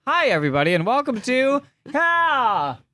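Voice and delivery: show intro. Acted. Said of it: "From the top".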